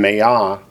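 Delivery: Maya with the final "ya" accented; end-stressed Maya; stress on last syllable. Shown as a demonstration. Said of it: "accents on the last syllable".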